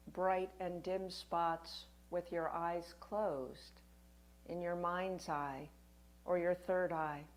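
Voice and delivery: gentle meditation guide with long pauses; guided meditation. Acted. Yoga teacher guiding listeners through a winter solstice practice, guided meditation. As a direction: lead them unhurriedly, phrase by phrase, leaving room to breathe.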